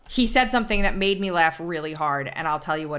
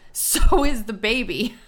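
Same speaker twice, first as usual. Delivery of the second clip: slow and a bit louder, punchline delivered with amusement; amused retelling; 5 semitones higher, 5 dB louder, slower than usual. Retold or imitated. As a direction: land the punchline slowly, savoring it.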